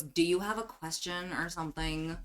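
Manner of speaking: mildly bored, curt question. Acted. Changeling asks the visitors for a question, mildly bored. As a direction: ask with a touch of disinterest. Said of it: "looking like she's so bored of this".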